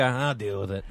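low, soft resigned grumble; imitated resignation. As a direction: give in quietly, imitating him. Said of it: "now he's more like".

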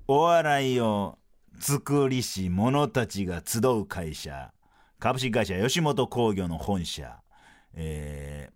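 slow dramatic broadcast intro; sports commentary style. Pretend. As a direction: introduce the venue like a big match. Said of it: "スポーツの実況風にフリートークせよ".

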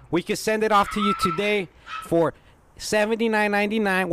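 chirpy cold-call salesman; cheerful phone-sales voice to a pretend customer; telemarketer voice. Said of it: "just pretend I'm calling you".

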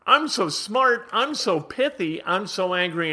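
mock-pleased inner voice mid tantrum; mock smug inner voice. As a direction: ham up the smug rage high. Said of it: "it's like".

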